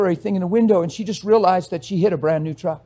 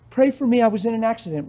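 mock needy; 3 semitones higher than usual. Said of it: "What is that?".

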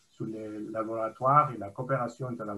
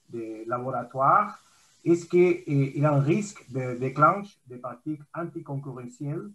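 speaking louder; 2 semitones higher, 4 dB louder than usual. Real, not acted. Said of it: "on vous entend pas très bien".

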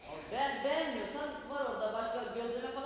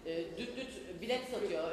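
ağır ağır anlatma; 3 semitones lower, much slower than usual. Acted. Akbil'i sesle anlatıyor.

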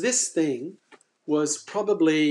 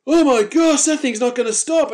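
retold panic; 9 semitones higher, 8 dB louder than usual. Phil panicking as shark rises.

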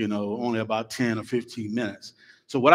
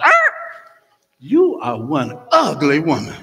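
squawking parrot; 2 semitones higher, 9 dB louder than usual. Acted. Rude parrot squawks an insult at the lady. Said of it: "The parrot looks at it and goes".

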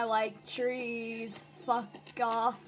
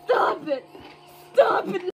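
mock whining; 3 semitones higher, 3 dB louder than usual. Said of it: "You're making me cry".

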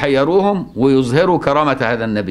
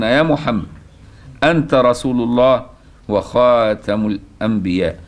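formal hadith recitation. Acted. Teacher reciting the intercession story to students, formal recitation. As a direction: recite it formally, stretching the key words.

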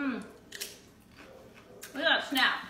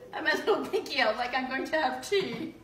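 laughing. Real, not acted. Laughing at her own pose.

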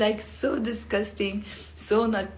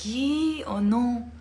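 dismayed ye; 3 semitones higher, much slower than usual. Shown as a demonstration. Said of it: "Sometimes we use it for that".

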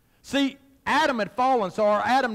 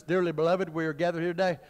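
wedding officiant; 4 semitones lower, 3 dB quieter than usual. Retold or imitated. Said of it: "preachers and, and traditional wedding services".

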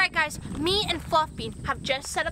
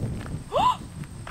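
gasp; 13 semitones higher than usual. Real, not acted. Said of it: "Oh my gosh!".

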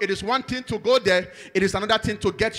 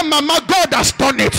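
loud, high joyful cry; son shouting joyfully; 4 semitones higher, 5 dB louder than usual. Retold or imitated. Son on the phone to his mother, shouting for joy. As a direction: shout it like overjoyed news. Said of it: "was screaming and shouting on the phone".

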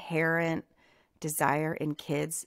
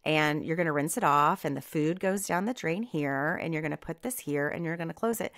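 patient teaching; faster than usual. Retold or imitated. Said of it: "instead of getting on to them going".

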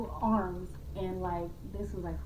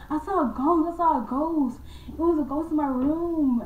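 put-on frantic kid; 7 semitones higher, 4 dB louder than usual. Child telling parents, frightened.

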